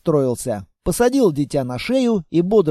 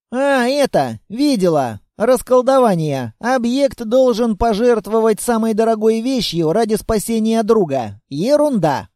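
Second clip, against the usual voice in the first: put-on dismissive girl; 3 semitones higher than usual. The girl dismisses the spell to the monster, offhand. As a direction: brush it off as nonsense.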